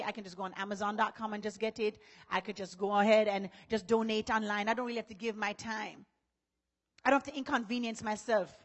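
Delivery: low, soft voice of a lazy excuse-maker; lazy churchgoer. Retold or imitated. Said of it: "In other words, to say".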